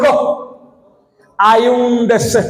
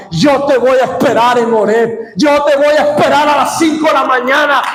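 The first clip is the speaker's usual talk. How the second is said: building shout; 3 semitones higher than usual. Real, not acted. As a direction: climb in pitch and force each time. Pastor promising, building.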